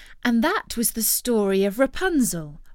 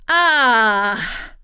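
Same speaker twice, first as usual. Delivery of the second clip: loud, sneering witch's ah; mocking cry; 9 dB louder than usual. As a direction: jeer at the prince. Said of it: "she cried mockingly".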